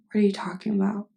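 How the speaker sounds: defensive whisper, barely voiced. Denying the accusation to a friend in a whisper. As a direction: hiss back the question under the breath.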